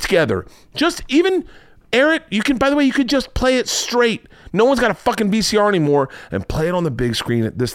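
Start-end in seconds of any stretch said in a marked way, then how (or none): 0.7-5.7 excited. Real, not acted. Hyped-up pitch, urging listeners.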